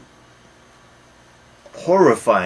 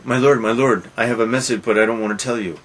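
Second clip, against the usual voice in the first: anxious messenger; 2 semitones higher, 4 dB louder, faster than usual. Retold or imitated. Voices messenger to Macbeth.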